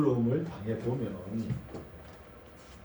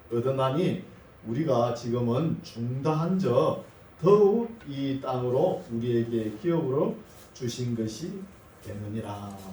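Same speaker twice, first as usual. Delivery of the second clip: scripture reading. Acted. Preacher reads the verse to the congregation, measured scripture reading. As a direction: read the verse out deliberately, phrase by phrase.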